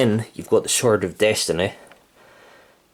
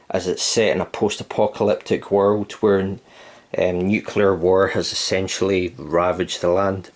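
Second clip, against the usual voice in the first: out of breath. Real, not acted. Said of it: "if it sounds like I'm out of breath".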